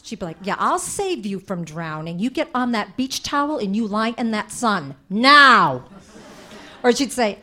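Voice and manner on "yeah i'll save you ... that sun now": threat. Retold or imitated. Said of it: "say them like they were death threats".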